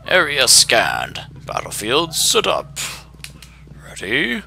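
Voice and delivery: high announcer voice building to a shouted fight; booming fighting game announcer. Retold or imitated. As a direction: hype the round start like an arena announcer. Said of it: "It's like".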